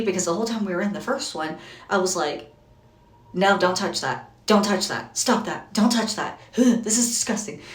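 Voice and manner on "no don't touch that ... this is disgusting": scolding. Retold or imitated. Mom scolding in dirty room.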